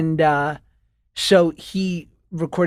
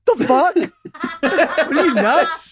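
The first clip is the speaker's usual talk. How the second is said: outraged disbelief; 8 semitones higher than usual. Real, not acted. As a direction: go up in mock outrage. Outraged at clinical notes.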